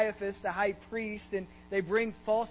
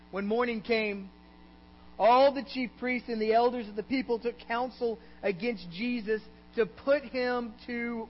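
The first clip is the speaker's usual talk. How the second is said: raised, ringing pulpit reading; scripture reading; 5 semitones higher, 4 dB louder than usual. A narrator's reading. Preacher reads the chapter to congregation, projected scripture reading. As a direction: read it out high and measured, drawing out key words.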